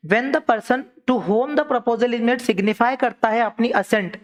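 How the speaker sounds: slow, spaced-out reading of the legal rule; dictating a definition word by word; slow dictation. Acted. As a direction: read it out so students can write it down. Dictates definition slowly to class.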